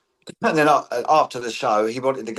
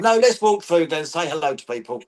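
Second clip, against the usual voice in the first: higher, coaxing insistence; lightly voiced friend insisting on greeting fans; mock Colin voice; 4 semitones higher than usual. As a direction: playfully press him to go greet people.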